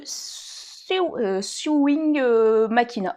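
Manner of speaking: slow, halting attempt at an English accent; accent anglais approximatif. Real, not acted. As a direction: feel your way through English words with a French accent. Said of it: "on admire mon accent anglais absolument parfait". (accent anglais hésitant, à la française)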